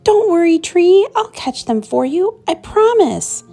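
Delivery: high, loud call over the wind; young fox calling to his tree in the wind; eager little fox calling. A narrator's reading. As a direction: shout a promise into the gale. Fletcher in strong wind.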